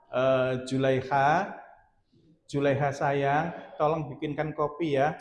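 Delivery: slow, lightly tender coaxing request; tender husband. Retold or imitated. Husband sweetly asks his wife for coffee, slow and tender. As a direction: stretch the name out slowly like a sweet husband. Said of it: "Enggak, dia mesra aja".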